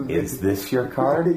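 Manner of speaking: card magician patter. Pretend. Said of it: "I'd like to do a magic trick".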